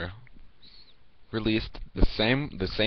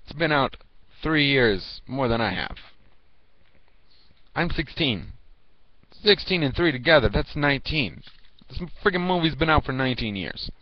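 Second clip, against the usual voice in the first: exasperated rant; 4 semitones higher than usual. Pretend. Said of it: "and be like".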